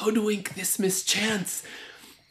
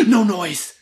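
sharp hush; 6 semitones higher, 14 dB louder than usual. Acted. Gasp, hushing at the cell.

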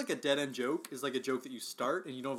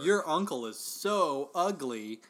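"so ugly" slowed right down and stressed; emphasis on the end; much slower than usual. Shown as a demonstration. Joking about a friend's uncle, slow sarcastic emphasis on "so ugly". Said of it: "because I put emphasis on the end".

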